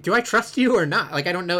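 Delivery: half-played suspicious wondering; mock wary doubt. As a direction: act out not knowing whom to trust.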